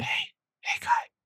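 hushed, breathy little whisper. Retelling what was said in someone's ear: imitating a whisper. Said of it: "The little whispers".

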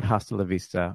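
ordinary talk

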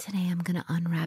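mock asmr-style voice. Imitating people in relaxing YouTube videos: imitating an ASMR video voice. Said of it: "they talk like this".

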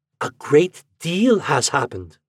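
hushed whisper. An aunt answers her nephew's question about what might happen: whispering. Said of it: "she whispered".

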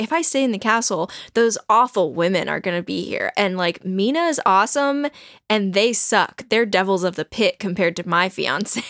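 plain

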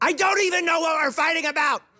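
acted, shrieked outburst, very high and loud. Retelling a past fight, reenacting screaming out. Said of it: "I just screamed out".

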